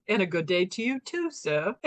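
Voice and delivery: imitating a sleep-talker's English accent; politely put-on English accent. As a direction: do a light English accent, like a courteous greeting. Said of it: "an English accent, like, from England".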